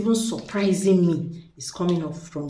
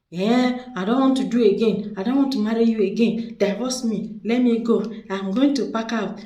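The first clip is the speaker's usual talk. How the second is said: louder, higher nagging wife, half-acted; mock angry wife; 4 semitones higher, 4 dB louder than usual. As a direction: play the fed-up wife yelling she wants out. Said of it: "No matter how she shout".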